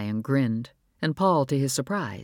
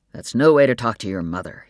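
louder, stern rebuke; angry father; 3 semitones lower, 6 dB louder than usual. Acted. Father scolding son for rudeness, angry. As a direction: scold him firmly. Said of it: "taking on Paul's anger".

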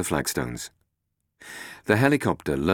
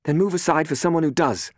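higher, louder no-nonsense order; Robin, curt; 12 semitones higher, 4 dB louder than usual. Acted. Robin telling Catherine to move, curt and firm. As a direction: take charge and brush them aside.

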